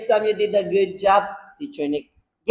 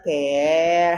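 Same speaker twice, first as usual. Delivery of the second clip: slow modelling; 2 semitones lower than usual. Shown as a demonstration.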